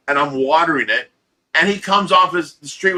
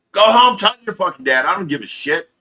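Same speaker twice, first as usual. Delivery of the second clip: put-on shouting after the kid with the gun; angry shout; 4 semitones higher than usual. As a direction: yell it at the kid running home. Yelling after fleeing kid.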